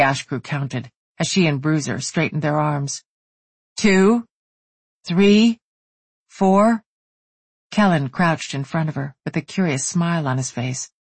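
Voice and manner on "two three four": higher, louder counting out; counting aloud. A narrator's reading. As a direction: call out the count.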